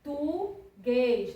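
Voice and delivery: português slowly broken into por, tu, guês; syllable by syllable. Shown as a demonstration. Teacher spelling out a word for pupils, syllable by syllable. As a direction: sound out português one syllable at a time. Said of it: "Por exemplo, ó".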